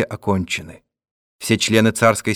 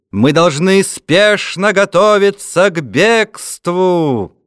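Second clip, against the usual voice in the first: loud, slow proclamation, higher; town crier; 5 semitones higher, 3 dB louder, slower than usual. A narrator's reading. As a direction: call it out to a frightened crowd. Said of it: "Глашатые кричали".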